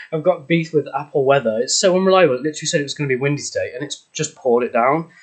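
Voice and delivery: panting after running upstairs; breathless, catching breath. Real, not acted. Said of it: "Sorry, I'm so out of breath".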